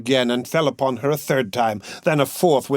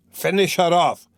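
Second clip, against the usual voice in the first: savage shout; 5 semitones higher than usual. A narrator's reading. Mikolka raging at the fallen mare, savage shout. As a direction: roar for the kill. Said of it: "shouted Mikolka".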